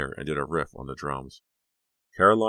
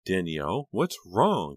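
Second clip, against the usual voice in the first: raised, higher call of alarm; worried cry; 4 semitones higher, 5 dB louder, slower than usual. Acted. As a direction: call out to her friend in worry. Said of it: "Caroline cried".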